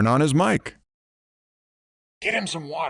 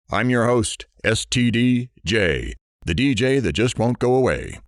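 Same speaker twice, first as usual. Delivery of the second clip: radio DJ intro. Acted. Radio DJ opening the show.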